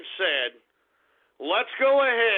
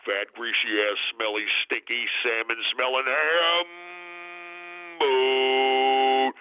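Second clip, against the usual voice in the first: much lower, slow insults rising to a yelled boat; mock insult building to a yell; 7 semitones lower, slower than usual. Taunting scooter riders, low insults building to a yell. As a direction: pile on the insults and bellow the last word. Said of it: "pass by 'em and say".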